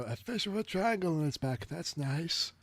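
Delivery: dopey, lightly voiced cartoon; a hint of a simple sidekick; Sancho voice. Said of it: "Sancho goes like".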